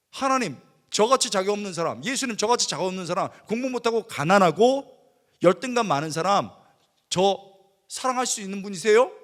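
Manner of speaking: earnest pleading prayer, loud; tearful prayer. Retold or imitated. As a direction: cry out to God, begging to be loved. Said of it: "눈물이 나는데".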